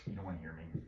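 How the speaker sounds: soft, low aside to the class; hushed, self-effacing remark; being quiet. Real, not acted. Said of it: "I'm just being quiet".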